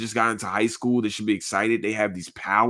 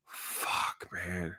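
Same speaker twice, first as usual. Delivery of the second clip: unvoiced, softer, hit by it; whispered gut reaction; whispered curse; 4 semitones lower, 13 dB quieter than usual. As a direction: breathe the curse out, overwhelmed. Quoting his reaction while watching.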